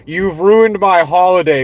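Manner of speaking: lightly put-on British meme voice; mock British accent. Ranter quoting a British guy in an internet meme, mock British accent. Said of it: "pale British guy going".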